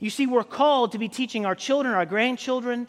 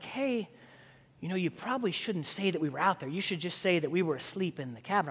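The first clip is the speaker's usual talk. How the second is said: softer, conspiratorial retold persuasion; confidential coaxing; 6 dB quieter than usual. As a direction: re-enact quietly nudging a kid into a cover story. Coaxing young kid to lie for him.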